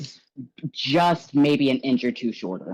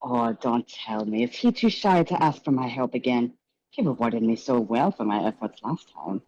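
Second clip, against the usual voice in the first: high, gushing showman's voice; flamboyant host; 3 semitones higher than usual. Acted. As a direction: greet the guests like a theatrical charmer. Gallagher discusses Mister Spade.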